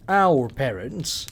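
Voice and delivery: slow, pointed correction; correcting. Acted. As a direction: set her straight, slowly. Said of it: "she corrected".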